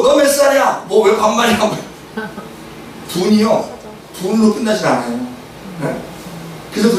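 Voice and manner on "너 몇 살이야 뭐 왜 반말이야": high, acted angry challenge easing slightly; mock road-rage bickering; escalating quarrel. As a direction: fire back at the other driver. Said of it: "말이 이렇게 번거요".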